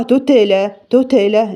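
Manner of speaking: تتلى with a wrong echo added on the ت; wrong qalqala. Shown as a demonstration. Teacher imitating a common recitation mistake. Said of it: "لا غلط".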